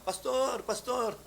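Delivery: high, loud calling out by name; shouting Pastor. Retold or imitated. Healed woman calling out to the pastor, shouting. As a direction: call for the pastor from the van. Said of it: "sumisigaw siya".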